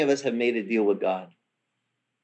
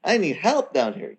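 urgent plea; 6 semitones higher than usual. Retold or imitated. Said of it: "I'm like".

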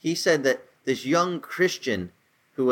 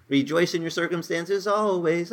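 "Rejoice in your circumstances always" asked as a raised, questioning misquote; doubtful wrong quote; 4 semitones higher than usual. Shown as a demonstration. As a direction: pose the wrong version as a question. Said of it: "No, no, it says".

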